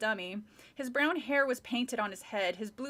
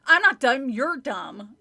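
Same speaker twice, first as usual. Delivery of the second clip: dummy voice; 10 dB louder than usual. Acted. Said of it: "Lindy made the dummy s".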